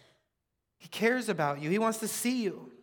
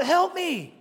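high, loud mimicked cry for help; raised, drawn-out plea; yelling out; 9 semitones higher, 6 dB louder than usual. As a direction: mimic a beggar's yell. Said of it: "some beggar is just yelling out".

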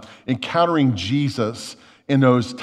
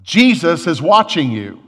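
mild, drawn-out mock scream; 3 semitones higher, 6 dB louder than usual. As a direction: call it out slowly as a mysterious voice. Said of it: "he hears this voice scream out".

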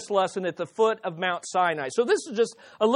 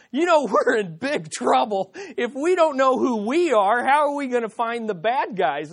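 laughing; 4 semitones higher than usual. Retold or imitated. Laughing while joking to agent.

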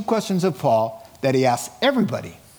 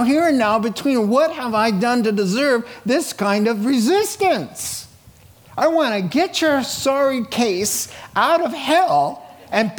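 a raised, pleading voice of God with a touch of exasperation; preacher voicing God's exasperated plea to a resisting sinner, raised and pleading; 5 semitones higher than usual. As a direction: preach God's frustrated plea, pitch climbing higher. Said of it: "That's what he's asking".

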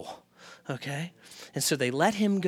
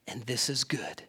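whispered; 5 semitones lower, 8 dB quieter than usual. Real, not acted.

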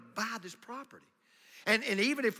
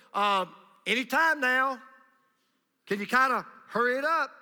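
impatient; 5 semitones higher, 8 dB louder than usual. Retold or imitated. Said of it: "Israelites got very impatient".

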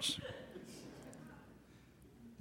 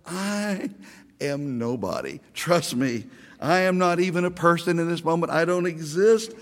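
mock-groveling apology that climbs higher, fading to a hush at the end; self-abasing apology; 3 semitones higher than usual. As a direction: beg forgiveness, shrinking away. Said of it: "I thought to myself".

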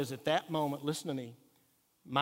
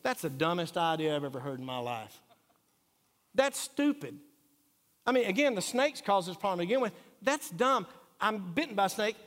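scornful husband; 3 semitones higher than usual. Retold or imitated. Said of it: "I can just hear him say".

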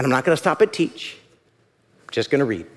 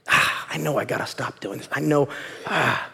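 weary guilt; 5 dB quieter than usual. Acted. Acts out a guilty person groaning.

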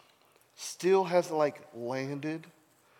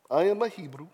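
badly faked accent from The Chosen; 3 semitones higher than usual. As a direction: tentatively try on The Chosen's accent. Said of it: "I'm not gonna do the accent".

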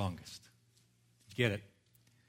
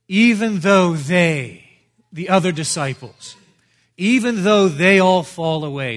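higher and louder, insisting; Peter protesting loudly; 5 semitones higher, 11 dB louder than usual. Retold or imitated. Preacher voices Peter refusing Jesus's prophecy, loud and higher. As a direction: throw the objection back at Jesus.

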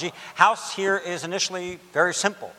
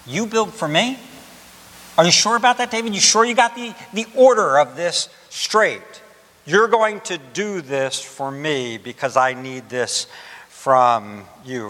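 God questioning David. Acted. Preacher voices God questioning David.

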